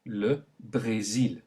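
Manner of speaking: slow le Brésil with closed é; le Brésil slowly; French é. Shown as a demonstration. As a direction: stretch the é in Brésil. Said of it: "Note the kind of E sound".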